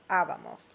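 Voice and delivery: Abamos with stress on the first a, said breathily; accent demo. Shown as a demonstration. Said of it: "Notice the accent on the nosotros form".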